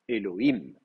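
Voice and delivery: Elohim with the accent on the last syllable, "him"; final-syllable stress. Shown as a demonstration. Teacher showing students where Hebrew accent falls, stress the end of "Elohim". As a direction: lean on the closing syllable of "Elohim". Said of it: "l'accent tombe sur la dernière syllabe".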